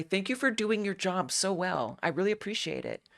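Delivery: overly polite apology to a police officer; butter up the officer, lightly put on; mild mock good-citizen politeness; good adult voice. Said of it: "that's my good voice".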